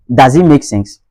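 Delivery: DOES as "dahz" in a Ghanaian accent. Shown as a demonstration. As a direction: open "ah" in does, Ghanaian style. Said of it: "Ça, c'est du côté ghanéen".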